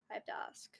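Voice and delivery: breathy whisper. Real, not acted. Whispered aside during reading.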